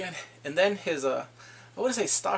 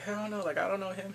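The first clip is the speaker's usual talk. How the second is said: higher, softer acted protest; quick denial; 4 semitones higher, 5 dB quieter than usual. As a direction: lightly mimic her disowning him. Acting out her denial.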